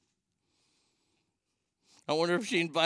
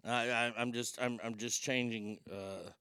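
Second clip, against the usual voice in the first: quiet, muttered aside under the breath; hushed aside; 6 semitones lower, 11 dB quieter than usual. Real, not acted. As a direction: murmur it so the call can't hear. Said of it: "don't mind me".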